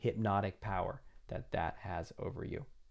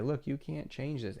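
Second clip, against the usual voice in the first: voice of doubt; 4 semitones higher, 4 dB quieter than usual. Pretend. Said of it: "The doubt will just use that as evidence and say".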